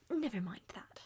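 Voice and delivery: soft, unvoiced brush-off; guilty whisper. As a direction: hush it up quickly. Brushing off the tablecloth question.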